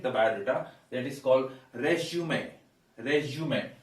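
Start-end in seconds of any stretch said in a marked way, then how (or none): 1.7-3.7 'resume' as the noun 'REZ-joo-may'; first-syllable stress. Shown as a demonstration. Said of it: "we stress the first syllable".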